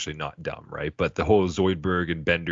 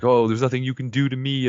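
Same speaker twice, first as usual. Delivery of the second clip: higher, louder put-on villain voice; gloating villain; 7 semitones higher, 5 dB louder than usual. Podcaster voicing the brain taunting Fry, put-on gloating voice. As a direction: gloat like an untouchable supervillain.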